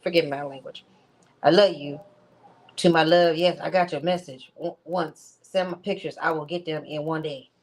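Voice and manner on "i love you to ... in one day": lightly voiced impression of a man's texts; understated imitation of the way he talks; imitating his way of talking. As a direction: mimic his speech, a touch. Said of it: "this is how this nigga talks".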